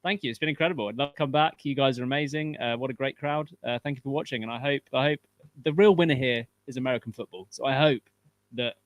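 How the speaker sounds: a hint of an American sign-off; lightly held American accent while thanking the crowd. Guest signing off the host's show in a mild American accent. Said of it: "American accent".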